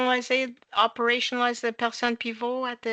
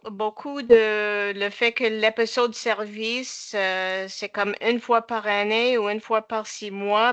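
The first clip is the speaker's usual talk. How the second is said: English-speaker's accent in French; French spoken with an anglophone accent; foreign accent in french. Real, not acted. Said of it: "Excuse-moi mon français".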